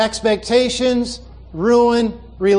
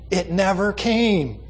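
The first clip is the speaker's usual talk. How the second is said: "It never came" said slowly and weightily, falling away; slow, deliberate emphasis on "never came"; emphatic; 4 dB quieter, slower than usual. Retold or imitated. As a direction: lean on each word of "It never came". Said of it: "I put the emphasis there".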